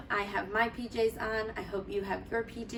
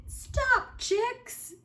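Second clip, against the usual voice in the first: calling stop. Acted. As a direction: call out to stop them. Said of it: "said Splat".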